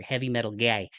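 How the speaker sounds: Heavy metal guy repeated with a broad Midwest guy; exaggerated Midwest accent. Shown as a demonstration. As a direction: lean into the Midwest vowel in guy. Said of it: "my Midwest accent really came out there".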